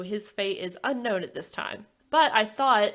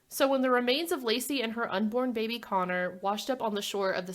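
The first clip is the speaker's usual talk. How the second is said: true-crime narration. Real, not acted. Host lays out the Laci Peterson case for listeners, measured narration. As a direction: recount the case in a measured storyteller's read. Reads scripted case summary.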